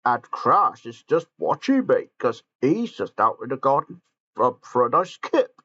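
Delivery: a hint of Gordon's voice; lightly voiced Gordon. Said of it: "explained Gordon".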